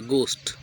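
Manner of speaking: "गोश्त" said "gost", plain g; silent h. Shown as a demonstration. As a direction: say "गोश्त" as gost without any h. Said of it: "एच silent हो जाता है".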